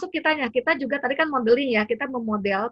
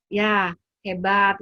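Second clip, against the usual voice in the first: praising; 4 dB louder, much slower than usual. Shown as a demonstration. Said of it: "cukup misalnya dengan".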